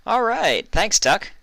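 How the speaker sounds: upbeat; eager. A narrator's reading. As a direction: rush out excited. Excited mare heading out.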